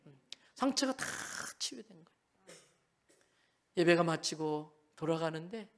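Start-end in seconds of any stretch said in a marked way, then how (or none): 0.1-2.6 hushed awe. Real, not acted. Tender climax of healing story.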